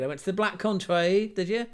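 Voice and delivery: put-on a light, half-hearted stab at a Black Country accent; bad Black Country accent. Joking to viewers about the Black Country, weak Black Country accent. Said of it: "That accent was terrible".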